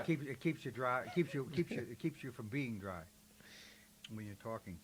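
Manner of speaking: chewing butterscotch while talking; mouth full. Real, not acted. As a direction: talk round a mouthful of candy. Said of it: "I'm chewing on butterscotch".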